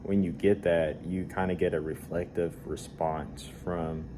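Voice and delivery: blocked nose, talking through congestion; stuffed nose. Real, not acted. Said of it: "I kind of have a stuffed nose right now".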